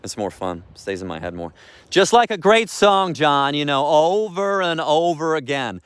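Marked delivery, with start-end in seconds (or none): 1.9-5.8 high, slow sing-song call to the dog; singsong dog voice. Real, not acted. Owner to dog, high slow singsong.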